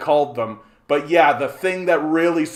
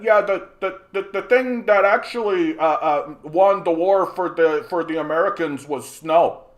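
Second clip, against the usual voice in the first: a lightly voiced clueless bar patron, a bit higher; mocking dumb guy; 4 semitones higher than usual. Streamer mocks a chatter's take at a Legion Lodge, in a lightly higher dopey voice. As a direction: parrot the idiot's claim in a dopey voice. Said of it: "and said that".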